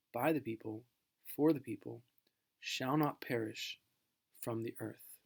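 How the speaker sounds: measured, solemn recitation of the address; formal speech reading. Acted. Teacher reading Lincoln's Gettysburg Address to the class, solemn oration. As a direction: read it like a dignified oration.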